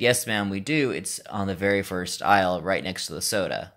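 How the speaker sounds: put-on American accent for customer service. Store worker directing a customer to coffee, American accent. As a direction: answer politely in an American accent. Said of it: "I was definitely using this accent".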